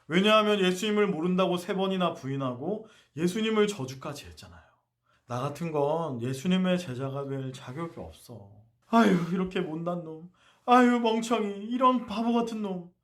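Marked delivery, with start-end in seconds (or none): 5.3-12.9 self-reproach. Retold or imitated. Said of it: "머리를 쥐어박으면서 자책했을지도".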